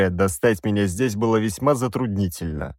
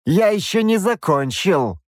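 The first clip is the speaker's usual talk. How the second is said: higher, preaching bishop voice; stern bishop; 9 semitones higher than usual. A narrator's reading. Bishop condemns the princess for accepting help, sternly. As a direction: lecture them like a zealous cleric. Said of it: "поднял тонкую руку епископ".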